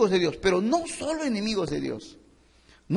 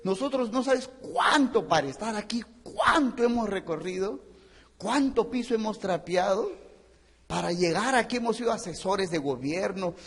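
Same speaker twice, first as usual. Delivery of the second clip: mock scornful executive. Executives berate the young intruder.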